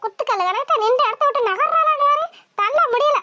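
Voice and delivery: a grandmother straining to shove her granddaughter; straining to push. Acted. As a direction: grunt it out as if shoving a stubborn girl. Grandmother pushing stubborn granddaughter.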